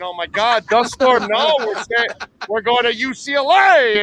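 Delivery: mild mock alarm over a dust storm; mock panicked parents. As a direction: play the parents freaking out, half in jest. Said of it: "Brandon's parents all freaking out, going".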